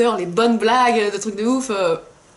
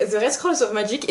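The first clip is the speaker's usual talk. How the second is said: French speaker's tired English title reading; tired English accent. Real, not acted. Apologizing to viewers for her tired English accent. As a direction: she says The Red Scrolls of Magic in a weary French-accented English. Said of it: "Excusez-moi pour mon accent fatigué".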